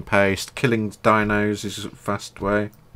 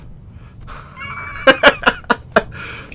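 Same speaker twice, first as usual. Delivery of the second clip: loud high laughing outburst; roaring with real laughter; 4 dB louder than usual. Real, not acted. Laughing after showing the horse.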